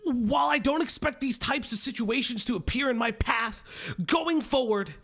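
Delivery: earnest sermon-like apology read; preachy pastor reading. Retold or imitated. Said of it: "Learn to read, Pastor Man".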